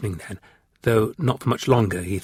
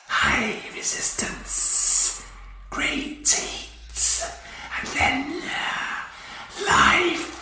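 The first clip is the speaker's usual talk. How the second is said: slow whispered reptilian voice; alien hiss; 7 dB quieter, much slower than usual. A narrator's reading. Ice Warrior piecing together his revival, slow hiss. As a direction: savour each word in a hiss.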